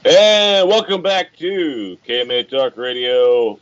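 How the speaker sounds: slow, stretched-out show opening; radio host welcome. Real, not acted. Host brings listeners back from the break, drawn-out announcer welcome.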